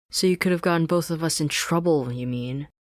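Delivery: sharp, loud retort; scoffing Sasha. Acted. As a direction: scoff while walking off. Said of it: "Sasha scoffed".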